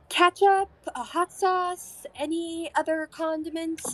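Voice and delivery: high, chirpy granny listing condiments; lightly voiced busy waitress; old lady waitress. Waitress offers condiments to the whole table, chirpy old lady voice. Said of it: "looks at all of you and goes".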